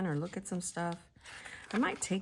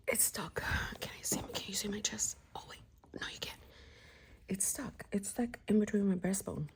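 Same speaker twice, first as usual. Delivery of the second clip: hushed whisper. Real, not acted. Whispering about something stuck.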